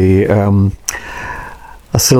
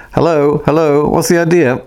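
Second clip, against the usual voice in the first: almost loudly; 5 semitones higher than usual. Acted. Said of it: "said almost loudly".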